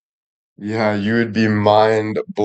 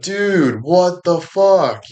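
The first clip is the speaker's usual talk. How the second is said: much higher, slow, stretched-out dude what the fuck; stunned disbelief; 8 semitones higher, much slower than usual. Retold or imitated. Still reeling from the body swap, higher and slowed in shock. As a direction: drag it out in a high, baffled wail. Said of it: "And then you're like".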